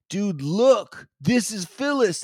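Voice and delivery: high-pitched imitation of a pleading friend; retold earnest plea. Friend shows the dead ferret to neighbour, retold pleading. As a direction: act out insistent showing-off.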